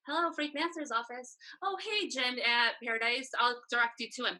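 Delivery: lightly voiced office phone greeting; phone receptionist. Assistant answering calls for a manager, lightly acted receptionist. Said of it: "answer the phones for him".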